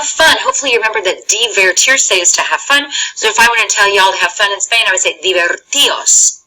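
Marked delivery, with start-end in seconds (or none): 5.2-6.4 "divertios" slowly as di-ver-TI-os, no d; "divertios" with weight on ti before -os; accented I. Shown as a demonstration. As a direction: stress the i in "divertios", separate from the o. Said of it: "so we accented it".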